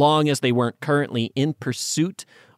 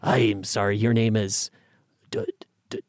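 mock confused official; 2 semitones lower, 4 dB quieter than usual. Mocking someone struggling with a name.

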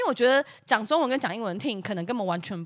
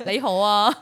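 mock Cantonese "雷猴啊" said with a whiny laugh; Cantonese greeting; 4 dB louder than usual. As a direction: imitate a Cantonese 雷猴啊, helpless. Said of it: "我要怎么沟通啊？". (学广东话说"雷猴啊")

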